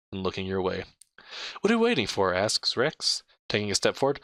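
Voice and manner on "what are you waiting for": eager urging. Acted. Rex urging them on.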